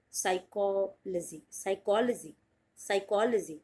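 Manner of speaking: "साइकोलॉजी" repeated with falling tune; drilled pronunciation. Shown as a demonstration. Teacher drilling students on psychology. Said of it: "टू word में आप divide करें".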